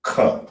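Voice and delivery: Ka said from the back of the throat; hard throaty Ka as in Hebrew; guttural ka. Shown as a demonstration. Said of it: "Make sure you say the ka like that".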